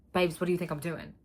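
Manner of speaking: loud, incredulous and fed up; venting at the trainer; exasperated. Real, not acted.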